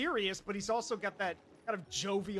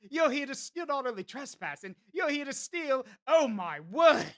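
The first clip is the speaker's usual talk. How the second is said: mock angry Englishman; 3 semitones higher, 5 dB louder than usual. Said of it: "he's angry and British".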